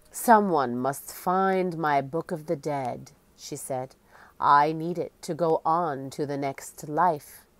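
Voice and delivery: lightly voiced ghostly queen, solemn; hollow echoing voice. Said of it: "She spoke in a hollow, echoing voice".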